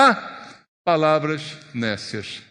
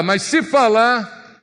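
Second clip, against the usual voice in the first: slow, deliberate; 5 semitones higher, 5 dB louder, slower than usual. Shown as a demonstration. Preacher sums up the verse: slow, deliberate. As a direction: stretch out mas se falar slowly. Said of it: "Resumidamente, é isso que ele fala".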